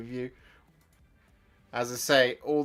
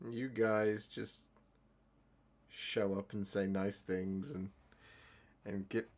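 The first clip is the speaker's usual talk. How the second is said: misty-eyed; 5 dB quieter, slower than usual. Real, not acted. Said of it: "I always get misty-eyed".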